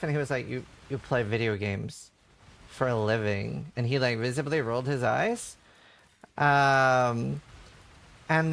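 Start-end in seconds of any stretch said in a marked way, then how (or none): 0.5-3.7 low, sneering disbelief; condescending disbelief. Retold or imitated. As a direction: scoff at it like it's silly. Nurse mocking streamer job.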